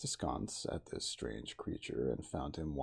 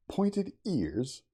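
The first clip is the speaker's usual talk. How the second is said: surprised repeat; 10 semitones higher, 8 dB louder than usual. A narrator's reading. Montgomery echoing the hero's odd question, surprised. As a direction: pitch jumps up on a surprised question. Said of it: "then repeated".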